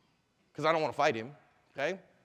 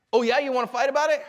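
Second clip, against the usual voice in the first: raised, louder goading voice; aggressive challenge; 6 semitones higher, 6 dB louder than usual. Acted. Drunk challenging the man who bumped him, aggressive. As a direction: throw it out as a dare to fight. Acted bar fight challenge.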